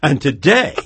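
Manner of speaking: loud, hammed-up preacher pitch; mock televangelist. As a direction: parody a TV evangelist begging for gifts. Parodies televangelist selling prayer handkerchiefs.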